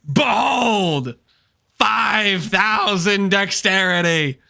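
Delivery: slow, grand villain boast; megalomaniac rant. Pretend. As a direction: proclaim it like a tyrant.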